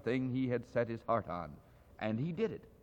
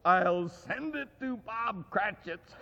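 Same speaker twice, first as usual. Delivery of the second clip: with a laugh; 5 semitones higher, slower than usual. Acted. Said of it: "splitting with a laugh".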